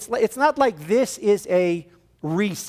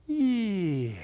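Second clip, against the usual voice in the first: relieved calm; 2 semitones higher, 5 dB quieter than usual. Retold or imitated. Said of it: "I went".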